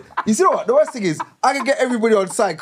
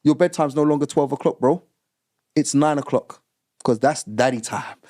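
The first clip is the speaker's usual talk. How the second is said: creepy stepdad quote; 4 semitones lower than usual. Retold or imitated.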